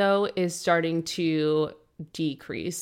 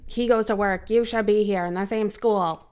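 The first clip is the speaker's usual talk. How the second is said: mock-upset mother, pitched higher; imitating a freak-out; 4 semitones higher, 4 dB louder than usual. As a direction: retell her protest with raised pitch. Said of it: "freaks out".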